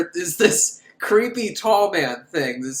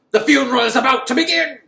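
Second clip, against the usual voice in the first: mock tall man; 9 semitones higher, 7 dB louder, faster than usual. Tall man appears behind Jody.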